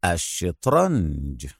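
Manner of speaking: slow, soft, low deadpan; dry, teasing understatement; sarcastic. A narrator's reading. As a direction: drop the word quietly, drawn out. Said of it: "أجابه في سخرية".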